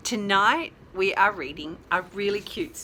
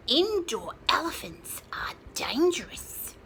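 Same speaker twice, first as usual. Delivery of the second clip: whispery chick; 3 semitones higher than usual. Acted. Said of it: "squawked the smallest chicken".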